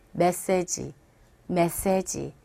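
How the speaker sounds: 메시지 in three even Korean syllables, slow and low; Koreanized loanword. Shown as a demonstration. Teacher showing learners' habit, Koreanized 메시지. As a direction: say 메시지 as mes-se-ji with a full final ji. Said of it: "이렇게 발음을 하게 됩니다".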